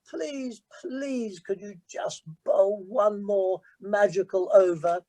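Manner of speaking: pleading. Retold or imitated. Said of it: "I used to plead with him and say".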